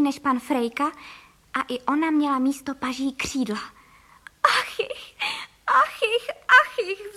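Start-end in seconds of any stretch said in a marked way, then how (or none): 4.4-7.1 high, sobbing moans of the wife. A narrator's reading. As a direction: whimper each ach jich through sobs, much higher. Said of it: "vzlikala paní Frejková". (vysoké vzlykavé naříkání)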